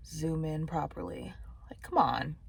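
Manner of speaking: hushed, breathy grumble at the camera; whispering. Real, not acted. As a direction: whisper it in annoyance. Muttering at camera while eating.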